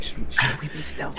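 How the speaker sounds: hushed, voiceless stealth whisper. Acted. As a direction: whisper it furtively to the party behind you. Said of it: "turn back and whisper".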